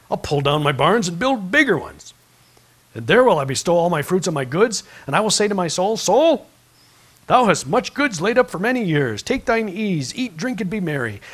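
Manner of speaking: loud, boastful rich man; loud scripture read. A narrator's reading. Reading the rich fool to the congregation, loud and proud. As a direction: preach it with swelling force.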